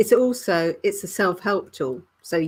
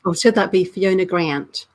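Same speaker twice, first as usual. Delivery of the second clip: put-on playfully trying the name in an American accent; British speaker's mock American; imitated American accent; 5 dB louder than usual. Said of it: "look at that American accent coming through".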